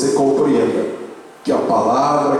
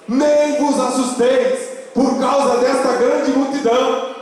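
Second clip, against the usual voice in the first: high, sustained declamation; scripture proclamation; 11 semitones higher than usual. Real, not acted. Pastor reads on about the great multitude, high proclamation. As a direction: carry it high to the last word.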